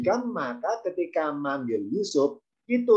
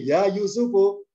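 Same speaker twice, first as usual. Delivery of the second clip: slow, ringing call, pitched up and louder; 4 semitones higher, 4 dB louder, slower than usual. Shown as a demonstration. Al-Aziz calling Yusuf out loud, ringing voice. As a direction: call the name out clearly. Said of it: "wah, suaranya lantang".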